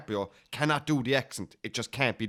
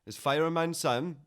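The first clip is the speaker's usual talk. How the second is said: slow, higher go at Welsh; badly faked Welsh lilt, drawn out; terrible Welsh accent; 4 semitones higher than usual. Shown as a demonstration. Guest attempts Fireman Sam's voice, terrible Welsh accent. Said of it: "there was a Welsh accent, was there".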